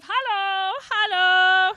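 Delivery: German crew greeting. Retold or imitated. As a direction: greet the passengers like a bright, cheery German flight crew. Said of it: "And they all wave".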